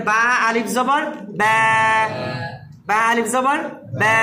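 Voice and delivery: "ব্যা" held long after the spelling; one-alif lengthening. Shown as a demonstration. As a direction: stretch the vowel of "ব্যা". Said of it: "এক আলিফ লম্বা হবে".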